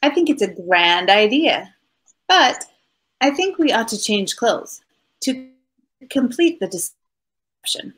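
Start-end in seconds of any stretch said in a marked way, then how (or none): 5.2-7.9 conspiratorial whisper. Acted. Conspiratorial suggestion to swap clothes.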